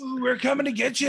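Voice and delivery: high, fast mock menace; spooky villain voice. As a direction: tease like a cartoon baddie.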